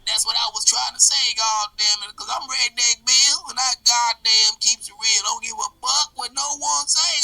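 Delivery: loud rowdy redneck character. Acted. Redneck Bill rants.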